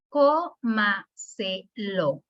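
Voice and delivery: co, ma, se, lo with a gap after each; syllable-by-syllable demo. Shown as a demonstration. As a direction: count out co, ma, se, lo as four separate beats. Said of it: "Estas tienen cuatro sílabas".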